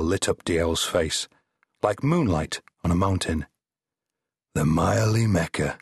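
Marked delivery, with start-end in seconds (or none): 4.5-5.8 dreamily. Acted. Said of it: "he said dreamily".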